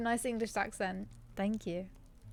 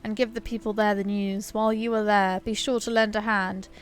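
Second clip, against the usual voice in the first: louder, grave Rohan lord; lightly voiced noble commander; earnest quest-giver; 7 dB louder than usual. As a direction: urge the hero to ride.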